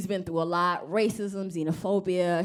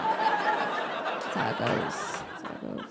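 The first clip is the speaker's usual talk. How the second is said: laughing; 7 semitones lower, much slower than usual. Real, not acted. Repeated through laughter.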